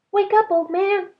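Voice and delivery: high, loud fish voice calling; a magical fish rousing the sleeper; talking fish. A narrator's reading. Fish calling to Ba in the night, high and loud. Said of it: "the fish said".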